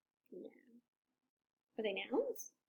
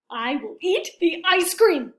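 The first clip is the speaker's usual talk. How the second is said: louder, slow, determined; triumphant declaration; 4 semitones higher, 8 dB louder than usual. Acted. Elephant deciding to eat it all, loud and slow. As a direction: announce it grandly. Big decision.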